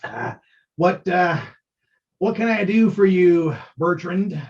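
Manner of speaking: lightly voiced stammering dwarf; a hint of a jolly dwarf barkeep; dwarf innkeeper. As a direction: greet the guest with nervous cheer. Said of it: "he kind of toddles up to you and goes".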